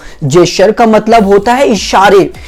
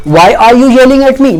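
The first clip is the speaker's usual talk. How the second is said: slow clear demo; 2 semitones higher, much slower than usual. Shown as a demonstration. Model sentence for learners.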